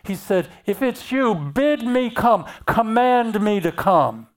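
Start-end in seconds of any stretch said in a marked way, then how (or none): 0.6-1.3 commanding request. Shown as a demonstration. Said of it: "That word bid means command me". 1.3-4.3 "bid me come" set higher, with firm falls; confident decree, not a timid ask; bold command. Shown as a demonstration. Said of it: "That word bid means command me".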